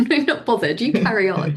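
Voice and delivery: light, unconcerned quote; breezy, unbothered. Retold or imitated. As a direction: imitate someone cheerfully waving you off. Voicing unbothered children's reply.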